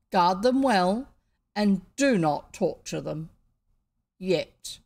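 slow, loud menacing order; a king savouring a threat; stately pharaoh. A narrator's reading. Pharaoh gives orders to guards.

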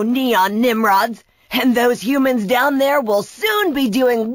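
scornful, lightly shouted villain voice; boastful villain. Acted. Brachus claims the island from the Neons, gloating. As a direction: gloat over your new power.

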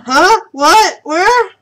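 startled sleepy guard waking up; groggy guard. Acted. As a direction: jolt awake confused.

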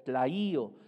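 "claío" with a hard K and stressed í; careful Greek pronunciation. Shown as a demonstration. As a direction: say "claío" again as a word, landing on the í. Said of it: "y con acento".

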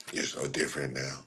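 mock quote of clingy chat; hushed whiny mock. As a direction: murmur it like a sulky fan. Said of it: "mocking chat again".

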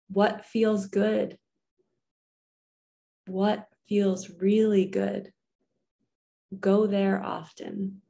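calm and unhurried, give each line space; guided affirmations. Acted. Reads affirmations slowly with pauses.

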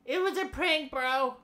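high, giggly prank reveal; prank reveal laughing. Real, not acted. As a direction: laugh it off, just kidding.

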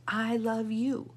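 slow, drawn-out "I love you"; mirror affirmation. Shown as a demonstration. Coach showing what to say in the mirror, slow affirmation. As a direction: stretch it out as if to your reflection. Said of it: "Another one that you can do in the mirror".

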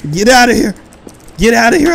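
loud shout. Real, not acted. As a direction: shout it away loudly. Shooing the monster.

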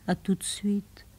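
soft whispered goodbye. Acted. Woman whispering goodbye to her lover. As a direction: breathe it, no voice.

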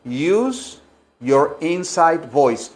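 "use your inside voice" muy lento y suave; maestra paciente. Shown as a demonstration. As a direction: como a un niño que grita. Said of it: "Pero adentro dicen". (maestra a un niño, muy lento)

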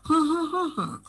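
high four-note hum of a sentence's tune; hummed intonation. Shown as a demonstration. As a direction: hum the melody with no words. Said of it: "তোমার humming করবা". (উঁচু স্বরে গুনগুন করে সুর)

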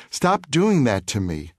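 put-on boy begging the bully to stop, understated; slow plea. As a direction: plead it, drawn out. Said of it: "I said, grasping him".

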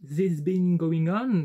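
slow, careful English title in a heavy French accent. Real, not acted. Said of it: "mon accent de merde". (anglais lent avec un fort accent français)

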